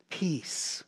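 a soft breathy whisper on the word. Real, not acted. Preacher hushing the congregation on the word peace, whispered. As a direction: let it fall to a hush. Sermon list, hushed word.

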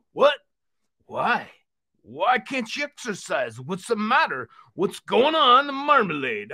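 hearty exercise-show puppet host; rally everyone like a cheery cartoon uncle; lively uncle character, punching the calls to action; jovial puppet uncle. Puppet Uncle Vino questions friend.

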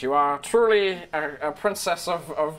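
princely kobold. Acted. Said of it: "looks quite princely and regal".

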